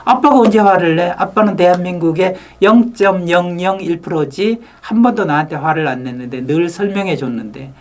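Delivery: 높은 음으로 아들처럼 항변; 아빠를 감싸듯 억울하게. Retold or imitated. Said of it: "아들한테도 물어봤거든요". (아빠에게 답하는 아들, 높은 음으로)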